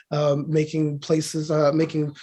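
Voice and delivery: hoarse, strained voice; losing voice. Real, not acted. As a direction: voice going rough and thin. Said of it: "I'm losing my voice".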